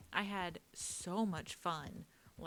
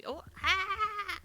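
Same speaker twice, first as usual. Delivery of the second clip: creepy vulture croak; 10 dB louder than usual. Pretend. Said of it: "Did I sound like the vulture?".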